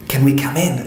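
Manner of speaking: neighbour mistakenly voiced with an Afghan accent; confused Afghan accent. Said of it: "I'm getting my accents confused there".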